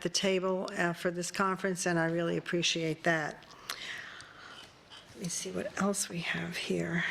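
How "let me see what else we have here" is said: whispered aside to self; whispering. Real, not acted. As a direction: whisper it under your breath. Chair reading notes aside.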